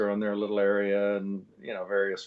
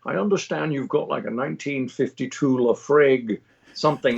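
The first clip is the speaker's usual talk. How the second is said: lightly voiced Scottish star; a hint of a Scottish film legend ordering; light celebrity impression; Sean Connery; 2 semitones higher, 4 dB louder than usual. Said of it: "she turns to him and he goes".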